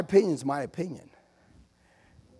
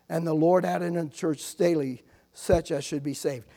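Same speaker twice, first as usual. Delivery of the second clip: scripture reading; 3 dB louder than usual. Acted.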